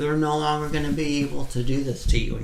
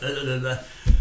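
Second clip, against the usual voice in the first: stuck grunting. Retold or imitated. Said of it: "I couldn't get the words out".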